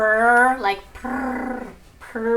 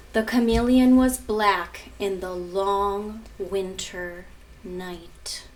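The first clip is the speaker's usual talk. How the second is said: put-on reading to children. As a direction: read it out to the class like a picture book. Continues reading picture book.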